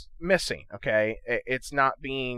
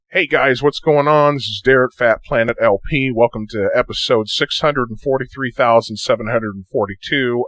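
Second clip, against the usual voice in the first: slightly pitched-down playback; 11 dB louder than usual. Shown as a demonstration. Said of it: "Say you wanna make yourself sound a little older".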